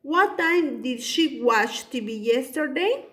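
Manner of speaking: What time did she watch T V yesterday read slowly; slow dictation. Shown as a demonstration. Teacher reading the model sentence to the class, slow. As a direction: dictate the whole question at a slow pace. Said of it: "yo he usado what time".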